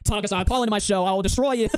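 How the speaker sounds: slow, drawn-out boastful call-out; mock challenge. Streamer retelling his debate call-out, mock boastful. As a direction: imitate a hyped-up challenger.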